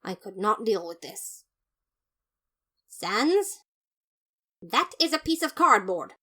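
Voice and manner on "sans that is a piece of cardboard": loud, higher disbelief; outraged at the junk; outraged brother. Acted. Papyrus outraged at the cardboard armor, loud and high.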